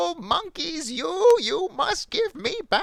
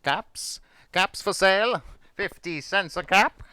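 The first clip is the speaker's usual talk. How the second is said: raised, projected vendor cry; street seller's call; 6 semitones higher, 6 dB louder than usual. Acted. Peddler walking back to town, calling his caps. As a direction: call out your wares in a singsong lift. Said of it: "walked back to town calling".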